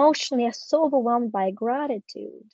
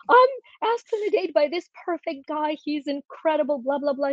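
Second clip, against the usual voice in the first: mildly excited retold gush, pitched higher; excited daughter; 5 semitones higher than usual. Excited college daughter telling mom about her date, lightly mimicked.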